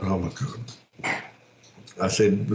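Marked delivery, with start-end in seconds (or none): 0.0-1.1 dismayed oh my god. Retold or imitated. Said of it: "I'm like".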